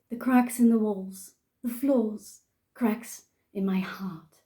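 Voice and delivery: put-on English-accented poetry reading; deliberate verse in a put-on English accent. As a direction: recite line by line in an English accent. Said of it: "I'm gonna do it in an English accent".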